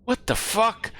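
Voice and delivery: sharp disbelieving outburst, high; shocked what the fuck; surprised. Real, not acted. Streamer reacting in disbelief.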